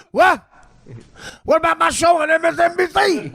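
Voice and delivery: mock outraged Al Sharpton. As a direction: play a vain pundit hearing bad news.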